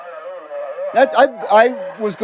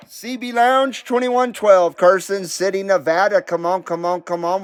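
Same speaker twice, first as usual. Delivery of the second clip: CB radio call. Real, not acted. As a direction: call out over the CB, hailing anyone listening. Repeats CB call sign on air.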